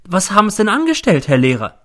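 aghast question, pitched very high; horrified. A narrator's reading. Landlady asks teacher what he has done, horrified. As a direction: demand it in loud, high dismay. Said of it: "wird sehr entsetzt".

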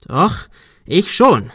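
cornered man trying to sound defiant; panicky. A narrator's reading. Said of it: "Arthur klang selbst panisch". (panisch, langsam und gepresst)

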